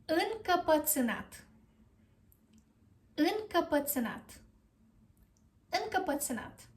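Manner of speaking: Încăpățânat as uhn-kuh-puh-tsuh-NAT; careful model pronunciation. Shown as a demonstration. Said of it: "stubborn in Romanian is".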